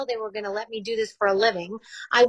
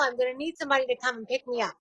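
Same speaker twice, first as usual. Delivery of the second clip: laughing; 5 dB quieter, faster than usual. Real, not acted. Jokes about falling mid-marathon.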